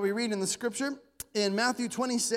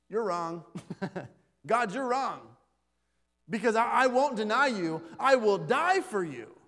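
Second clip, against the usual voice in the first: defiant Peter; 5 dB louder than usual. Retold or imitated. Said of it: "Peter's response to that".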